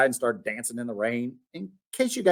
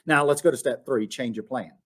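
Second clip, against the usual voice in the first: usual speaking voice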